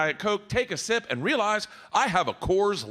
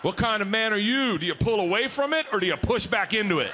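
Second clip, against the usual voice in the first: shouting. Real, not acted. Shouting to the crowd.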